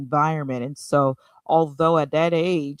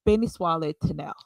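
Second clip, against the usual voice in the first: missionary Creole accent; 2 semitones lower than usual. Shown as a demonstration. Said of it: "can you give us a small demonstration".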